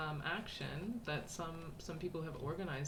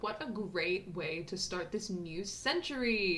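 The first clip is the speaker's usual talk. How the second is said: chirpy, higher and slower, reading aloud; bubbly postcard voice; 4 semitones higher, 5 dB louder, slower than usual. Acted. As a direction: read it like an excited girl writing home. Reads postcard in girl's voice.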